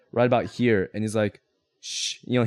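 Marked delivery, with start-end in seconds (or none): 1.8-2.2 soft warning shush; quiet them with a shush. Acted. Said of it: "he gives you the shush".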